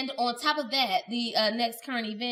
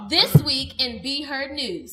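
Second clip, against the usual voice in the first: reporter voice; 4 dB louder, slower than usual. Acted. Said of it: "with my terrible reporter voice".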